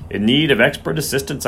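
"expert" given a bit of emphasis; stress on "expert". A narrator's reading. Groom doubts the vet, pointed stress on "expert". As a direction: lean pointedly on the word "expert". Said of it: "put a bit of emphasis on the expert".

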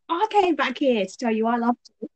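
a touch of hammed-up Love Island accent. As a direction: quote a Love Island contestant in their accent. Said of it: "I did that accent".

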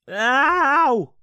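sudden sharp high yelp of pain; real cry of pain. Real, not acted. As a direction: yelp as the tooth hits the mug. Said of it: "I just knocked my tooth against my mug".

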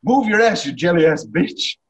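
high, loud, commanding yell; shouted movie insult. Acted. Quoting a film insult to a co-host, shouting. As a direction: order them along with a loud insult.

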